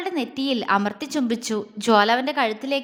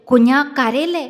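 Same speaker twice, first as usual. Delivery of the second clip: comforting; 7 dB louder than usual. A narrator's reading. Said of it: "അവളെ ആശ്വസിപ്പിക്കാൻ ശ്രമിച്ചു".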